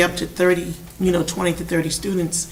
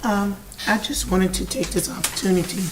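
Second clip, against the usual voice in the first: speaking through a hoarse voice; raspy, worn-out hoarse voice; 2 semitones higher than usual. Real, not acted. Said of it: "excuse me for my hoarse voice".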